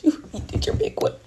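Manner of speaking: high excited squeal; squealed hype. Retold or imitated. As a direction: squeal it with delight. Hyping up a friend.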